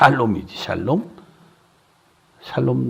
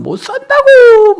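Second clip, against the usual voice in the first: much higher, louder and slow desperate cry; retold frantic shout; 12 dB louder, slower than usual. Wife crying to the pastor about her husband, slow loud wail. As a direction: drag it out like a fit of despair. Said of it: "난리".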